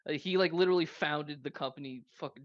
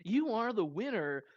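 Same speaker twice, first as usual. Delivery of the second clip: gaudy hologram voice; 5 semitones higher than usual. Acted. Voicing the hologram message.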